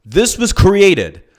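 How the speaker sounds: every word hammered slowly; very slow, deliberate emphasis; emphatic, slow. Real, not acted. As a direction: spell it out word by word. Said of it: "let me emphasize this".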